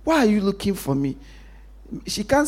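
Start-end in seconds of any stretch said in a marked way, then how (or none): 0.0-1.2 lightly voiced mock retort; tossed-off cheeky reply; a hint of a sulky child; daughter's retort.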